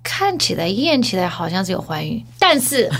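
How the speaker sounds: measured, composed doctor imitation; feigned calm. Doctor cautiously telling the patient, mock composure. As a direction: keep it deliberately composed, with pauses. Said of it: "他也是故作镇定说".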